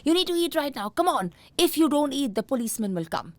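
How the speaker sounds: imitating a fed-up parent threatening; frustrated parent. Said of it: "you get frustrated and you're like".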